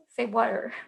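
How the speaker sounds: "water" with the T softened to a D; T not pronounced. Retold or imitated. Daughter coaching mom to be understood, "water" without T. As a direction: model "water" without a hard T. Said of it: "don't say the T's".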